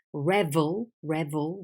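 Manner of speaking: revel, drawn out with a V, not a B. Shown as a demonstration. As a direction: revel said slowly as REV-ul, clear v. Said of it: "when it's spelled with V, not with B".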